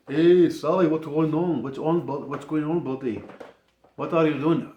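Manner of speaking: lightly exaggerated mock buddy greeting; bad buddy impression. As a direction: imitate a buddy checking in, not accurately. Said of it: "he doesn't talk like that at all".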